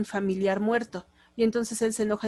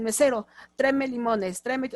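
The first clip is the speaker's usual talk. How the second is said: authoritarian order. Shown as a demonstration. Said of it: "son muy autoritarios".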